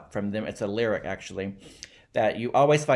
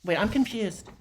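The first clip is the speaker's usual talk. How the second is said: much higher, puzzled protest; acted confusion; 9 semitones higher than usual. Someone's son baffled by his friend's logic, high and confused. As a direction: break in high and lost.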